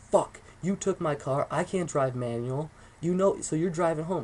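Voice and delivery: mildly heated imitation of mom; imitating an exasperated mother; angry mom. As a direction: retell mom's angry outburst, drawn out at first. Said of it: "she was angry".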